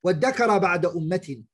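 fast, chanted verse recital; Quran recitation. Acted.

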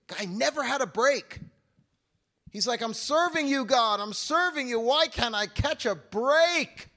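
loud, high, pleading complaint to God; exasperated cry. Retold or imitated. Preacher voicing Paul's frustration.

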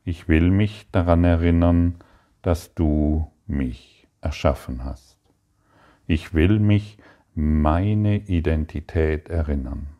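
earnest, lifted prayer voice. Acted. Teacher prays aloud to the Father, earnest and heartfelt. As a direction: pray it with devotion to the Father.

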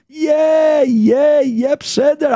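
impatient yeahs. Acted. The man brushing off the malach's list, impatient. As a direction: cut him off, I know already.

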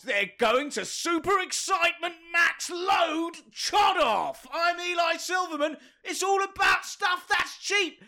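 high, excited hype-man shouting. Pretend. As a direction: pump the crowd up like a hype man. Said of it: "your hype begins now".

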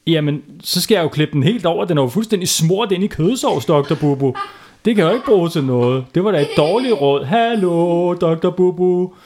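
a kid whining at bad advice; complaining boy. Palle complains, laughing.

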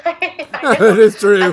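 speaking through laughter; laughing. Real, not acted. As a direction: laugh as you say it. Laughing reply.

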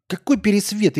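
loud outraged retort; angry. Real, not acted. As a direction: snap back, offended and loud. Angry reply to chat comment.

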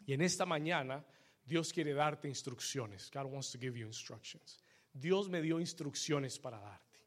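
low, soft sermon voice; hushed, measured pastoral address; solemn preaching. Real, not acted. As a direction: tell the congregation quietly and earnestly. Preacher speaks softly to congregation.

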